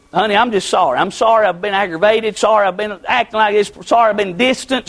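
low, sincere apology to a spouse; retold husband's apology, subdued; humble apology. Voices humble apology to his wife.

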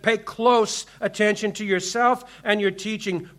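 "close" leaned on with a falling tune; stress on close. Shown as a demonstration. Preacher drives home Paul's words to the church, stressing "close". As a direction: press the word "close" in "Pay close attention". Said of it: "He didn't just say attention. He said".

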